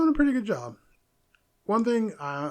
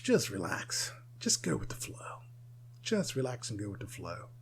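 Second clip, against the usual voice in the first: soothing hush; 9 semitones lower, 10 dB quieter than usual. Acted. Soothing advice to Black British.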